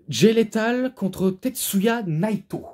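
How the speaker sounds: high, slow announcer's call of the matchup; ring announcer. Acted. Reviewer announcing the television title match, ring announcer style. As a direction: draw out the names like a ring announcer.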